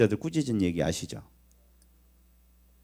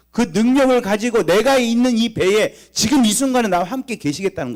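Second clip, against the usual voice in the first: higher, louder preacher's cry; preaching at full force; 8 semitones higher, 6 dB louder than usual. Acted. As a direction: drive the rebuke home from the pulpit. Preaching climax.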